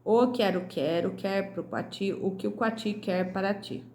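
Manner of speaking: measured tongue-twister recital; tongue twister read aloud. Shown as a demonstration. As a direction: reread the tongue twister with care. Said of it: "Releia em voz alta o trava-língua". (trava-língua relido em voz alta)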